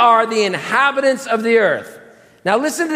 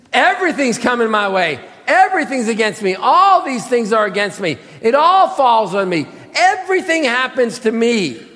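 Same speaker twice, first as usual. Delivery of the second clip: mildly hammed-up self-pity; mock woe-is-me complaint; pity-party whining. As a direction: pile up the grievances like a victim. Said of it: "having a pity party right now".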